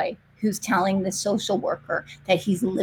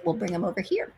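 laughing answer; 4 semitones lower, 9 dB quieter, faster than usual. Retold or imitated. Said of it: "And I said".

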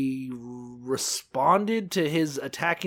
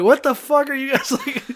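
high, loud, laughing question; laughing disbelief; 9 semitones higher, 6 dB louder than usual. Retold or imitated. Host reacting to the sailors, laughing disbelief. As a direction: laugh through the outrage. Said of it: "And I'm like".

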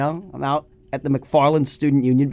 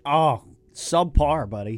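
blocked nose from a cold; sick, congested voice; stuffed up nose; 2 semitones higher, slower than usual. Real, not acted. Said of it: "You do sound really stuffed up".

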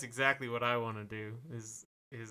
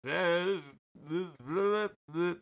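robot voice; 5 semitones higher than usual. Pretend. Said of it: "been around humans so long".

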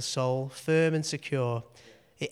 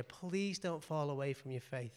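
emotional plea; 10 dB quieter than usual. Real, not acted. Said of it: "I'm getting emotional here".

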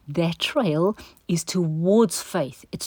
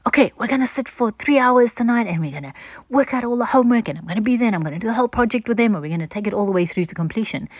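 overeager rush; 5 semitones higher, faster than usual. Retold or imitated. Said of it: "I'm like".

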